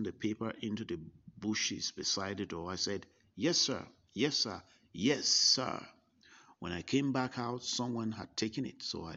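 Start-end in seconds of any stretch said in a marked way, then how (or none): 3.3-5.9 hasty, eager, louder yes sirs; flustered yes sir. Retold or imitated. Young visitor hurriedly obeying the stern preacher, flustered. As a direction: rush the yes sirs out, cowed.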